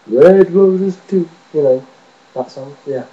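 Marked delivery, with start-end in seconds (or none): 0.1-1.3 a singer. Retold or imitated. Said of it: "As in".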